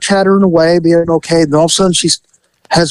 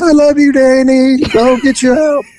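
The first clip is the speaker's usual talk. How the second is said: put-on doting boyfriend; 7 semitones higher than usual. Boyfriend voiced in the story.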